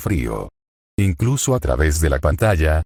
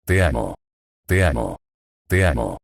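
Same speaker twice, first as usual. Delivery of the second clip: bruja susurrando; 4 semitones lower than usual. Acted. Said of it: "Mientras susurraba el amor".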